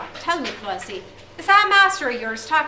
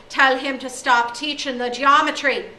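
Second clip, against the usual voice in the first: loud angry rant; 3 semitones higher, 9 dB louder than usual. Acted. O'Day rants at headmaster.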